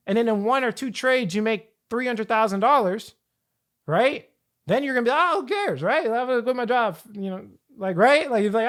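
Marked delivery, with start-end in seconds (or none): 5.1-7.0 breezy, careless voice, pitched up high; imagining the rich ex-worker's carefree shrug; mock carefree. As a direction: toss it off like nothing matters.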